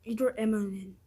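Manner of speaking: letters burped out loud; burping the words. Shown as a demonstration. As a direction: burp out the letters. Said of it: "I got up to".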